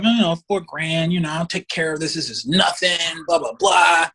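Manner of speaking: dismissive lawyer waving it away, building to a shout; breezy overconfidence. Retold or imitated. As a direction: imitate a cocky lawyer, last words soaring up. Acted overconfident first lawyer.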